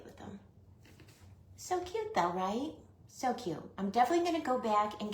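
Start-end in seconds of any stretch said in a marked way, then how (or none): 1.6-3.6 cooing. Real, not acted. Cooing over the cute decorations.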